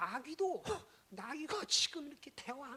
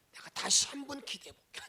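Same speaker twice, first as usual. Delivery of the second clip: louder spoken promise, 한번 stressed; louder open promise to pray; 4 semitones higher, 11 dB louder than usual. Acted. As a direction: say it out boldly to the envoys. Same line said loudly first.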